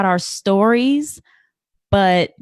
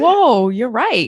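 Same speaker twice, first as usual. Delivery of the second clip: slow, louder, stretched whoa; taken aback, drawn out; slow amazed whoa; stunned realization; 6 dB louder, much slower than usual. Retold or imitated. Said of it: "It's like".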